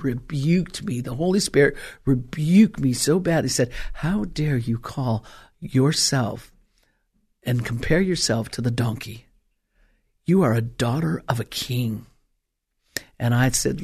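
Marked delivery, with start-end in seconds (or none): 3.9-9.3 rebuking voice of the Spirit. Retold or imitated. Holy Spirit rebuking the preacher. 10.2-12.1 low, voiceless whisper of the Spirit; hushed divine whisper. Retold or imitated. The Holy Spirit tells the preacher her worth, whispered.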